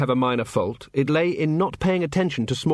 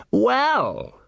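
slow; 11 semitones higher than usual. A narrator's reading. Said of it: "said Sergeant Colon slowly".

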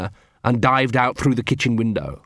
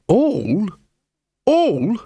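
outraged disbelief; 9 semitones higher than usual. A narrator's reading. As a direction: yelp it out twice, scandalised. Gaspode outraged repeat.

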